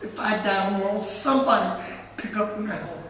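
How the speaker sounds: retold speech, pleading and emphatic; earnest plea. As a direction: urge them to carry the fight on, voice lifted. Retold plea to young activists.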